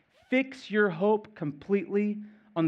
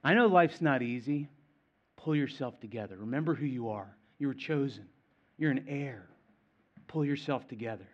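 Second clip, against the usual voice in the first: put-on gently steady a struggling child, easing down in volume; a hint of a caring dad's firm counsel; loving father. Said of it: "A loving father saying".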